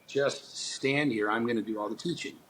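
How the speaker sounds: hushed and unhurried, like God; calm voice of God. Retold or imitated. God answering him quietly.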